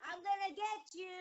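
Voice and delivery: high-pitched taunting playground calls; imitated schoolkids. Kids calling to her in the schoolyard, imitated teasing. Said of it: "they would go".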